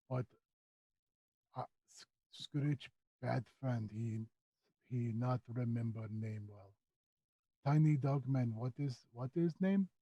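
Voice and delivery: soft, halting creature in broken speech; Skitch, sheepish creature. Acted. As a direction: hesitate quietly, embarrassed at forgetting a name.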